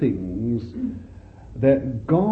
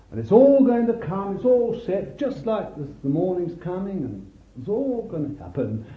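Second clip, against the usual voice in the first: mocking pious claptrap; 5 semitones higher than usual. Mocking the pious revival talk.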